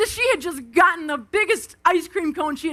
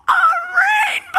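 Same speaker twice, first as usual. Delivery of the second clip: pumped; 6 dB louder, much faster than usual. Retold or imitated.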